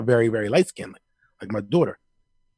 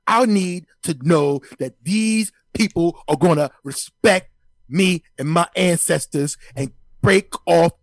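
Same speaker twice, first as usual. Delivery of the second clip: higher, louder sports-pundit rant; Stephen A Smith impression; 4 semitones higher, 3 dB louder than usual. Pundit demanding reparations on air, loud high ranting impression. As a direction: hammer every demand like a TV hot take. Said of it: "that Stephen A Smith just dropped into the room".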